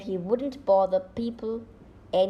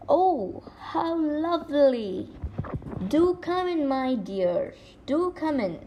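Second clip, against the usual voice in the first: higher, croaky put-on granny voice; wolf faking a sweet old granny; croaking wolf as granny; 5 semitones higher than usual. Wolf greets the girl at the door, croaking falsely sweet. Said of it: "croaked the wolf".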